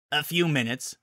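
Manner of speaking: lightly voiced, offhand reply; casual. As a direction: toss it off casually. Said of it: "Rainbow Dash said casually".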